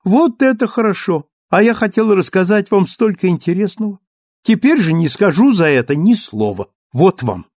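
put-on high, loud girlish sulk; playful pouting girl. A narrator's reading. Cosette sulking playfully at Marius, high and loud. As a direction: tease them with a pretend huff.

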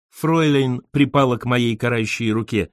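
ordinary delivery

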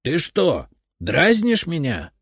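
put-on high, loud, slowed old man's outrage; shrieking grandfather. A narrator's reading. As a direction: keep squealing at the boy. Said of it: "завизжал дедушка".

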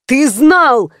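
accusing him in despair; wailing. Acted. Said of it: "завопил парень".

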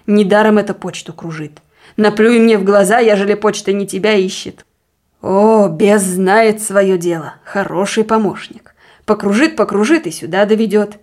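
knowing, bitter insistence; suspicious deacon, accusing. Acted. Deacon sure the post seeks his wife, accusing. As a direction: press the charge, drawing out the sarcasm.

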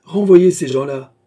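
voix irritée, ordre sec; irritated order. Acted. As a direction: bark the dismissal in irritation. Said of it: "d'une voix irritée".

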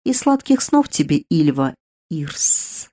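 a menacing drawn-out hiss, the name stretched slow; sinister hiss. Acted. Queen of darkness hissing at her victim, sinister and slow. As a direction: savour the farewell like a queen of darkness. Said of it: "Зловеще прошипела королева тьмы".

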